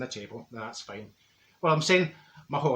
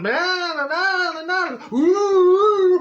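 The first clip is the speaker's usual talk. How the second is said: high, loud gibberish wailing; mock trance babble; 7 dB louder, much slower than usual. Psychic babbling nonsense during the seance, high and loud. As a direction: babble like a medium in a fit.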